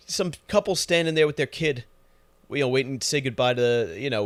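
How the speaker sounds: usual speaking voice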